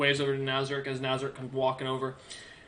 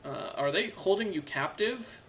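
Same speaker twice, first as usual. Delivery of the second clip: put-on higher, softer young man's voice; young soldier; 5 semitones higher, 5 dB quieter than usual. Young soldier asking Bastion if he's held captive, high and soft. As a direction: ask softly, pitched up, as if checking on them. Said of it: "looks at Bastion and goes".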